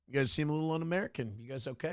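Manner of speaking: lightly mocking Stephen Miller, fast and snide; imitating Stephen Miller scolding the press, passive-aggressive. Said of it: "He's kinda passive-aggressive with his shit".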